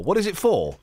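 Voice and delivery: talking while chewing chicken; eating chicken sandwich. Real, not acted. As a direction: mouth full of sandwich. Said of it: "we're all eating chicken sandwiches now".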